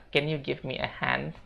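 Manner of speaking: softly, a bit slow. Shown as a demonstration. Teacher offers the alternative request softly. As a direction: say it gently and slowly. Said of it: "Teman-teman bisa bilang".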